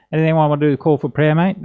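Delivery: put-on quick, broad Aussie accent; broad Australian accent. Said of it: "he says in a very Aussie accent".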